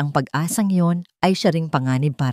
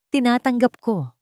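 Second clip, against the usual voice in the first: steady voice; 6 semitones higher than usual. A narrator's reading. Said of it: "Ang kanyang boses ay matatag na ngayon".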